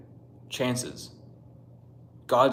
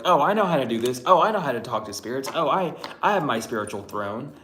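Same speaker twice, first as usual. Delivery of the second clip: sing-song mock of a know-it-all, a bit louder; mocking imitation; 3 semitones higher, 4 dB louder than usual. Vlogger mocking fake channelers, snooty mimicry. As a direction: parody their smug bragging. Mocking self-proclaimed spiritual people.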